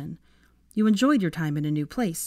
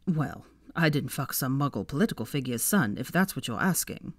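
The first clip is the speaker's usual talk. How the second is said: a hint of a smug young man, lower; low, teasing Malfoy; understated lower Malfoy voice; lightly voiced Malfoy; 3 semitones lower, 3 dB quieter than usual.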